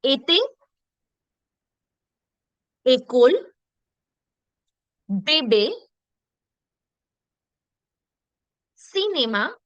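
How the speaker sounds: each word separately, é as a clear "ay" in "Ete, école, bébé, cinéma, médecin"; French é model. Shown as a demonstration. Teacher leading everybody once again, "Ete, école, bébé, cinéma, médecin" with clear "ay". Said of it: "Okay, once again".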